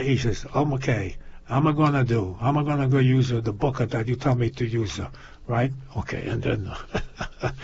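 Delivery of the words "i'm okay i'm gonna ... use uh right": lightly put-on immigrant accent; a touch of foreign accent, broken English. Foreign father agreeing to use the book, in a light accent. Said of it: "He got an accent".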